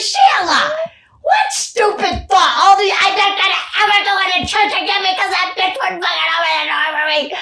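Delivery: loud, high mock scolding; scolding herself. Scolding her younger self, loud and mocking. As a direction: chew yourself out, exasperated. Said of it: "I'm like".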